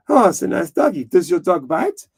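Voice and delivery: put-on French accent; Clouseau. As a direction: coo it as a comic French detective. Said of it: "He goes".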